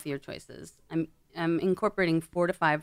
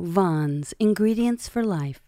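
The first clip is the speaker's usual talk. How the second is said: upbeat commercial tag line; announcer voice; 2 semitones higher, 5 dB louder, slower than usual. Shown as a demonstration. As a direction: sell it like a grocery ad. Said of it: "I would go".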